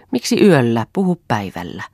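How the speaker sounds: a touch of impatience; slightly exasperated. Acted. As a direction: brush off the request, a little fed up. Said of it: "sanoi Eero hiukan tuskastuneesti".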